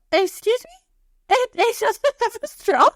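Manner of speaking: high, drawn-out disbelieving question; mock affront. Shopper spotting a cup with no straw, mock affront. Acted complaint at missing straw.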